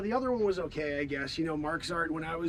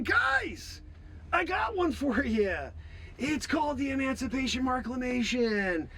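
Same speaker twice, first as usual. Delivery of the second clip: speech to crowd; 3 semitones higher than usual. Retold or imitated. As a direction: call out the big announcement to a crowd. Recreating his speech to crowd.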